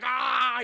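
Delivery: mock pain cry. Acting out Chaz being pierced.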